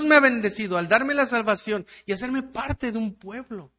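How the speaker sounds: fervent preaching. Acted. Pastor urges the congregation, fervent preaching. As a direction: press the point home to the church.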